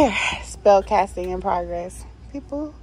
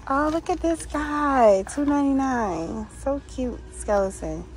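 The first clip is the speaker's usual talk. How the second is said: delighted find; 5 semitones higher than usual. Real, not acted.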